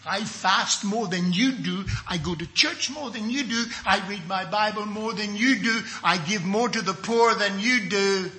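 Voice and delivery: sing-song bragging; mock pious boasting. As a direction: lilt it like a smug one-upper. Imitates a boaster comparing piety.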